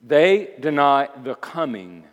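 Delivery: deliberate emphasis through to "coming"; emphatic. Shown as a demonstration. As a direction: spell out the phrase firmly, stressing "coming". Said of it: "this word coming that I've emphasized".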